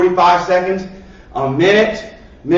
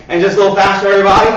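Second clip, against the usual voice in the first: rising louder toward everybody; building coach call; 4 dB louder, much faster than usual. Shown as a demonstration. Coach urging kids to speed up, getting louder. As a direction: push the group, voice swelling on everybody.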